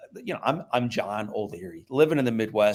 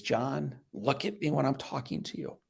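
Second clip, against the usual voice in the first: stern dad; 8 dB quieter than usual. Retold or imitated. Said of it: "the first thing he says to me is".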